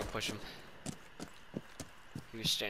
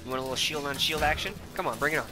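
cocky taunt, louder; 4 semitones higher, 4 dB louder than usual. Real, not acted. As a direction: goad the enemy playfully. Taunting enemy shield on shield.

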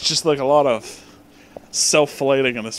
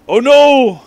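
loud, high hammed-up gasp of dismay; mock alarm; 8 semitones higher, 10 dB louder than usual. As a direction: play the scandal big. Mock alarm reading the story.

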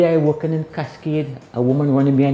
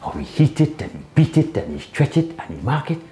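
spoken-word poem. Acted. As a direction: perform it like a steelband poem. Spoken-word poem about the pan.

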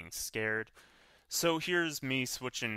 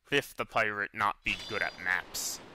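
pirate voice. Acted. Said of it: "That was a pretty poor pirate voice".

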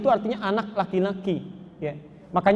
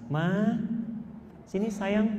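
softly coaxing husband's call; very sweet; 6 dB quieter, slower than usual. Retold or imitated. Husband invites wife over despite salty noodles, very sweetly. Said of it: "ucapan yang sangat manis".

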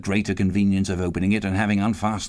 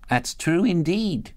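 laundress; 8 semitones higher, slower than usual. A narrator's reading. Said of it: "said the laundress".

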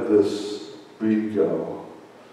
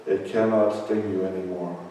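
gentle dad. Retold or imitated. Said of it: "He said".

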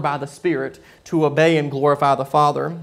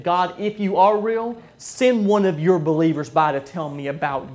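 pleading prayer; 3 semitones higher than usual. Retold or imitated. Hitchhiker's desperate prayer retold.

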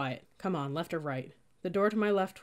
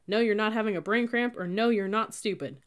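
higher, louder, stressing you're with scorn; sarcastic mockery; 5 semitones higher, 6 dB louder than usual. A narrator's reading. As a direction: twist her words back at her. Cadet mocking her answer.

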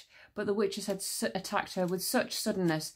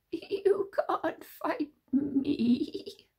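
very slow, high creature voice; King Witch taunting Tsar; eerie witch; 9 semitones higher, much slower than usual. A narrator's reading. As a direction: drawl the threat. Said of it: "he said".

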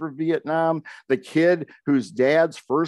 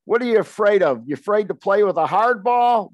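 taunting dare; 5 semitones higher than usual. Retold or imitated. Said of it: "my brother spoke up and said".

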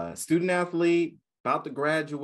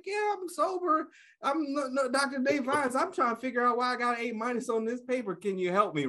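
mock innocent protest; 11 semitones higher than usual. Student protesting to professor.

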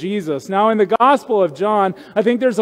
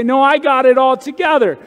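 mock proud denial; 3 semitones higher than usual. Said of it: "I want to say".

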